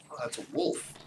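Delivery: hushed, breathy spotting; whisper. Real, not acted. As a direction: whisper it so the wolf won't hear. Spotting a wolf quietly.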